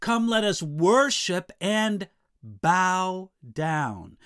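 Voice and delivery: "bow down" slow and spaced apart; humble emphasis. Shown as a demonstration. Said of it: "there's an added sense of humility".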